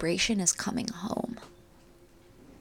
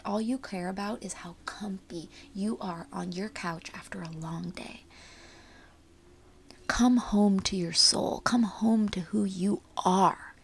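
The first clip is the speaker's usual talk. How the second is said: airy breathy mystical healer. Acted. Guiding listener home to soul.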